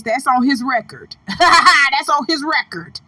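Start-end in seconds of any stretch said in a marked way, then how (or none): 1.4-3.0 slow, amused insistence; laughing repeat. Real, not acted. Commentator citing the rapper's record, slow and laughing. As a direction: say it drawn out, coming off a laugh.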